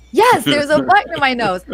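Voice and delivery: lightly voiced insistent child; a hint of a kid insisting. Mum voices her insistent son.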